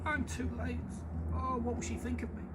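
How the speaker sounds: high, worried hare voice; fretting hare. Acted. The hare worrying what the moon thinks, high fretting. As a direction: fret aloud as the hare. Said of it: "he cried".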